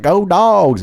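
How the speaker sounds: high, loud "Go Dogs!" cheer; shouted cheer. Retold or imitated. Mimicking a Georgia caller's cheer, a loud high yell. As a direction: yell "Go Dogs!" like a pumped-up fan. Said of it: "he didn't sound like that at all".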